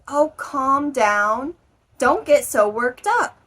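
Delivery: telling someone off. Acted. Teacher acting someone telling a friend to calm down, exasperated. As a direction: tell them to calm down, with an edge. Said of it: "my tone was like".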